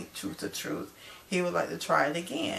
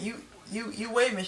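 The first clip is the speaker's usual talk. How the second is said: higher-pitched mock protest; retold upset objection; 5 semitones higher, faster than usual. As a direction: imitate an upset interruption, voice raised in pitch. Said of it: "that got Tahari upset".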